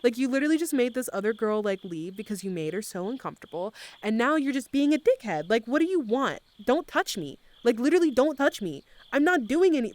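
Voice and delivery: retold exasperated telling-off, rising in pitch; cursing him out. Telling a pushy clubber to back off, cursing him out. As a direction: replay chewing out a nuisance. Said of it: "I was, like, cursing him out".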